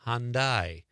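Hyundai drawn out on both syllables; careful pronunciation. Shown as a demonstration. Host showing the name is hard, Hyundai said slowly. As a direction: stretch Hyundai as HAHN-dyyye. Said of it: "You have to think about it before you say it".

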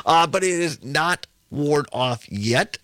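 slow, careful speech through a numb mouth; slow down so you don't bite your tongue; deliberate, novocaine-slowed talk. Real, not acted. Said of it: "talk a little slower than normal".

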